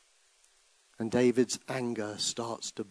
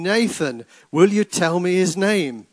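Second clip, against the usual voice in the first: loud, high, furious cry for the name; screaming demand; 8 semitones higher, 14 dB louder than usual. Acted. The king screaming at the prophet, furious and loud. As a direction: hurl the question at him. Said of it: "the king was screaming".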